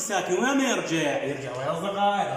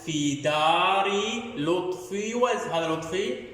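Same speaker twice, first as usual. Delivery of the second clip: slow, sing-song reading for pupils; reading aloud to children; much slower than usual. Shown as a demonstration. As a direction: read it out like a primer for first graders. Teacher reads the reading passage aloud. (قراءة إنشادية بطيئة للأطفال)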